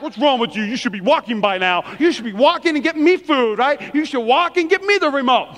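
playfully exasperated nagging; mock impatience. Parent to a toddler learning to walk, mock impatient. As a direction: complain like a fed-up parent, in jest. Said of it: "And we're like".

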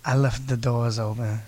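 low-pitched car-ad actor; low, laid-back celebrity imitation; Matthew McConaughey. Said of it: "Matthew McConaughey".

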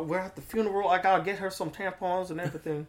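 soft Southern imitation; gentle, shy Southern talk; timid Southern accent. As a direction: quietly voice a sweet Southern man. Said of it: "And he would talk like this".

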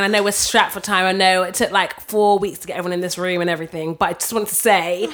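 breathless over-the-top compliments; gushing. Retold or imitated. Colleague gushing in meeting.

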